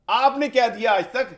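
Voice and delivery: indignant demand; angry. Real, not acted. Guest demanding what the leader gave besides poverty, angry. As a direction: press for an answer, heated. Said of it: "ابھی ذرا غصہ اپنا side پہ رکھیں".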